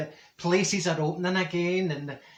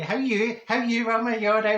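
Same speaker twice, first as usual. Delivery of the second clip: high, louder, gushing; effusive greeting; 7 semitones higher, 4 dB louder than usual. Retold or imitated. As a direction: overdo the friendly welcome. Marjorie greeting Wilma effusively.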